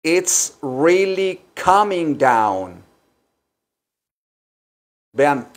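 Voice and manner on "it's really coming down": It's really coming down, slow with weight on coming; slow teaching model. Shown as a demonstration. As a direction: model the idiom slowly for the class. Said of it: "apréndanlo". (frase modelo, lenta, acento en coming)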